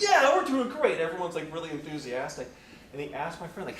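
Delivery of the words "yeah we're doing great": much higher, louder cheer; mock boastful president. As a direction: crow it like a proud boss.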